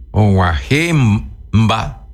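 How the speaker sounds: "guajemba" said very slowly; slow demo. Shown as a demonstration. Teacher to radio listeners, very slow "guajemba". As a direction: spell out "guajemba" syllable by syllable. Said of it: "usa el pa átono".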